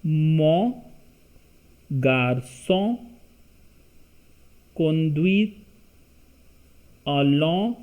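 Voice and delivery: word by word, pausing between each; slow French dictation of Mon garçon conduit; read slowly. Shown as a demonstration. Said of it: "then I will read it slowly".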